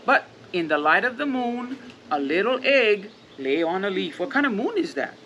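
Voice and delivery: gentle, even storybook reading; reading to children. Acted. Parent reads The Very Hungry Caterpillar to the kids, gently. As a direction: read it like a bedtime picture book.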